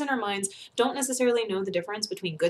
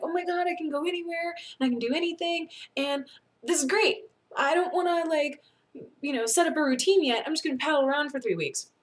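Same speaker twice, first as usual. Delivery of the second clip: higher, bubbly imitation of a thrilled person; mock giddy excitement; 6 semitones higher than usual. Friend imitating someone thrilled with freedom, giddy. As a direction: gush like you just got free. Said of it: "super excited and you're like".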